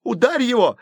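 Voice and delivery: high shout. A narrator's reading. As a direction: scream at him to hit. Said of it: "закричал средний Флинт".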